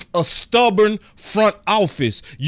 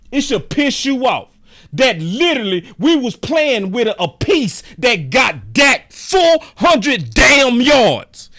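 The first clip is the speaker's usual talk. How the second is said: angry; 3 semitones higher than usual. Real, not acted. Angry rant with shout.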